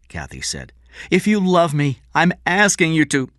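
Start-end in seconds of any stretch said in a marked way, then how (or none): 1.1-3.3 begging. A narrator's reading. Kathy begging Eddie.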